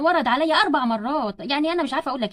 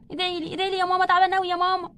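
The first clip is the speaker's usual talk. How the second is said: higher, pained pleading; labour distress; 3 semitones higher than usual. Acted. Daughter in labour asks her mother's prayers, pained and pleading. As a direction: plead wearily through labour pains.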